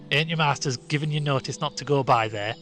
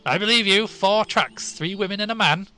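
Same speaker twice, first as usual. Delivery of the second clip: higher, louder insistent shepherd; emphatic exclamation; 9 semitones higher, 9 dB louder than usual. A narrator's reading. Shepherd insisting to the boys, higher and louder. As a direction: insist with alarm.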